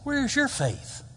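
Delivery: high, slow "Where is your faith?"; emphatic question. Acted. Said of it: "That's my emphasis".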